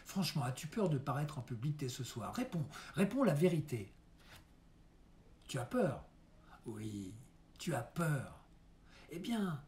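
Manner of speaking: lightly acted stage father, measured phrases with long pauses; Deburau coaching his son. Father preparing his son for his first entrance, earnest theatrical coaching. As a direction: give earnest advice, lifting into emphasis and easing down.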